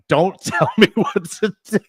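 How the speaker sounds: mock wife voice, lightly done; mock wife snap. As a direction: play the wife snapping back, laughing. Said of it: "your wife is like".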